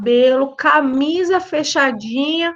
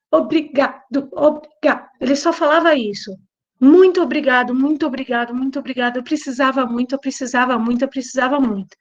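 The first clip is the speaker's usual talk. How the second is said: a touch of sobbing, understated; imitating tearful thanks; faster than usual. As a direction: retell the boy crying with gratitude, gently. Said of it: "começou a chorar copiosamente".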